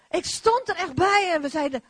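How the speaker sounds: normal talking voice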